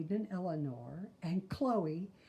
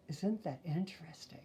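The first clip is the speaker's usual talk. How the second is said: hushed wonder; 6 dB quieter than usual. Acted. Gasps at Jupiter fact.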